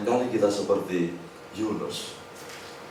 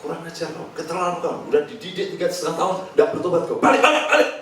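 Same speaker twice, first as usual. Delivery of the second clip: mock scolding; 4 semitones higher, faster than usual. Imagined harsh teacher berates disciples, mock shout building. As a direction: rebuke the failed disciples, ending in a yell. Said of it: "kalau konseling tidak bentak-bentak".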